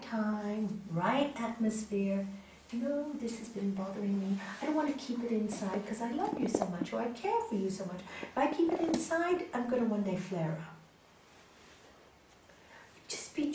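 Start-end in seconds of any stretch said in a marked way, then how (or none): 2.7-10.7 gentle confession. Shown as a demonstration. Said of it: "Wait till the person comes, good mood".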